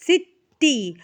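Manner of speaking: सिटी split in two, ending on a clear long "ee". Shown as a demonstration. Teacher shows students the sound of Y, सिटी with long E ending. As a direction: say सिटी syllable by syllable, "sit-tee". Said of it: "तो ई sound दे रहा है".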